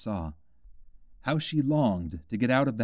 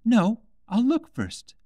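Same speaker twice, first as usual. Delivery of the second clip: put-on high, slow, careful girlish voice; a sensible child taking her time; cautious young Alice; 13 semitones higher, 5 dB louder, slower than usual. A narrator's reading. Alice checking the bottle, high and cautious.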